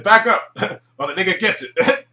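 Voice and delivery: imitating a sheriff's bluff; mock threat. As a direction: bark it like a hostage taker. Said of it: "He said".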